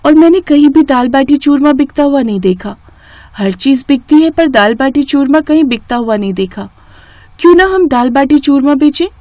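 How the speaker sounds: put-on girl's voice, hopeful and pleading; eager daughter. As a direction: sell the idea to mum with bright hope. Daughter Preeti voiced, pitching an idea.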